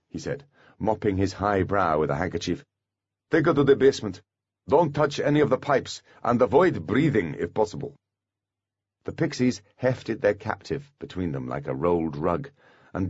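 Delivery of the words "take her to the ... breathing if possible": warden voice. A narrator's reading. Warden gives orders.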